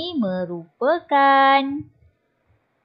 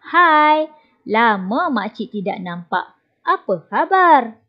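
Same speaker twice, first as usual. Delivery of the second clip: bright, louder hai and apa khabar; cheerful greeting; 3 dB louder than usual. Acted. Aunt welcoming the boys after a long time. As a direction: greet them like long-lost friends.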